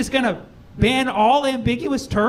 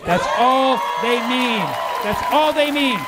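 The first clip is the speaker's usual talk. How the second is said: emphatic; 4 semitones higher than usual. Real, not acted. Emphatic repetition.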